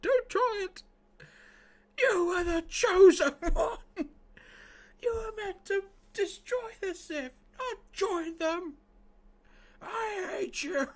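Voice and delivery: high, anguished Obi-Wan; Obi-Wan impression. Streamer hamming up Obi-Wan's grief for chat. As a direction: wail it like a heartbroken master. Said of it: "the impressions".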